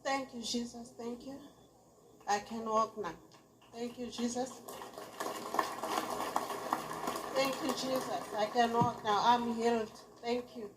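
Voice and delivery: high, joyful thanks for healing; overjoyed, thanking Jesus. Real, not acted. Healed woman thanking Jesus.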